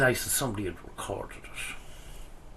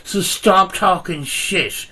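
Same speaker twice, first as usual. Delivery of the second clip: loud heated rant, getting louder; tearing into him, voice raised; wild unhinged ranting; 3 semitones higher, 4 dB louder than usual. Real, not acted. Heated argument with rival youtuber.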